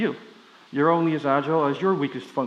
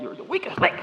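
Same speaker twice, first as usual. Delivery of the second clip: mock quiz host; 8 semitones higher, 3 dB quieter than usual. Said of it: "this lady who's really shaking her head".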